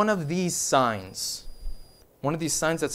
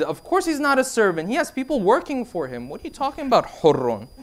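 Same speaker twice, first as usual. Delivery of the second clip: higher-pitched, mildly indignant protest; incredulous maid; 4 semitones higher than usual. Retold or imitated. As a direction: act out a maid baffled by the question. Maid's indignant reply, acted.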